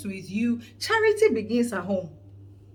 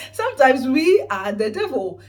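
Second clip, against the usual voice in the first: louder repeat; 9 dB louder than usual. Real, not acted.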